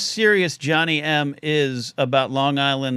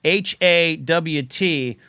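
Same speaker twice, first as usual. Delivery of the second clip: comment read slowly, spelling it out; much slower than usual. Retold or imitated. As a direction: drag out the chat comment, letter by letter. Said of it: "Kingsport Cal says".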